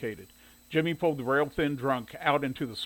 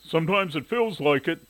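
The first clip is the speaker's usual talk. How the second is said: louder, lightly amused reply; mild amusement; 3 semitones higher, 5 dB louder than usual. A narrator's reading. Owner joking with a visitor, mildly amused. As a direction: answer as a little joke. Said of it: "said with a laugh".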